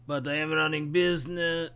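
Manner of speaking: a light put-on Watto-style shopkeeper accent; haggling merchant in a faint alien trader accent. Shopkeeper haggling with a child customer, light Watto-style accent. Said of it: "I really like that accent".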